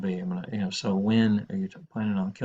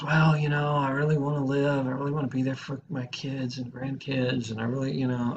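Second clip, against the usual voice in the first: higher-pitched, wavering plea of someone torn; acted ambivalence; 4 semitones higher than usual. Teacher acting a torn caller, ambivalent. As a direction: voice a caller pulled back toward living. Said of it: "ambivalence about killing themselves".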